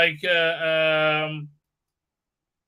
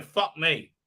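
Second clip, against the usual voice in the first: mock fan; 3 semitones higher than usual. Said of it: "who's watching this going".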